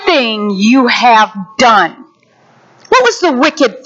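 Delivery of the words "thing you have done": slow, grave rebuke; a hint of a stern king. King confronting the unforgiving servant, slow and grave. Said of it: "the king called him back in and said".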